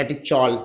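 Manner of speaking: "catechol" said low and soft as kati-chol; "catechol" ending in chol, quietly; Bengali-style CH reading. Retold or imitated. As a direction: say "catechol" with ch, as attributed to Bengali speakers. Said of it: "जैसे बंगाली लोग नहीं होते".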